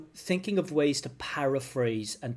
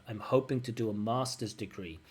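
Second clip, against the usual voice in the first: easy connected phrase falling on "master's degree"; natural intonation; 3 dB quieter than usual. Shown as a demonstration. Teacher modelling a confident answer, natural falling "master's degree". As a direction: glide through to "master's degree" and settle. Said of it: "instead of duh".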